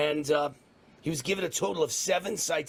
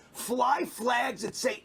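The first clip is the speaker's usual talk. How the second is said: rally shout; 5 semitones higher, slower than usual. Real, not acted. Rallying cry, shout heard.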